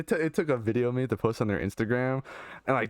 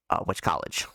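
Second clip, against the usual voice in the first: lower, lightly voiced questioner; imitated odd stranger; 5 semitones lower than usual. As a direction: imitate the odd guy probing further. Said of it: "kinda, like, in that voice".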